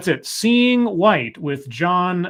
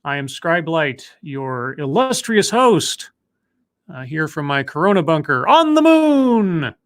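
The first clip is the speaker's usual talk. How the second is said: lightly grandiose host intro, drawn out on key words; measured, showy welcome to the audience; show intro; slower than usual. Acted. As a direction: present yourself as the illustrious host. Did that sound like a good intro.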